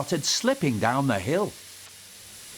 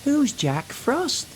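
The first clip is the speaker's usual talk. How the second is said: nervous; 12 semitones higher, slower than usual. A narrator's reading. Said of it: "Percy said nervously".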